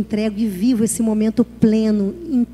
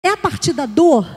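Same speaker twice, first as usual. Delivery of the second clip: ordinary talk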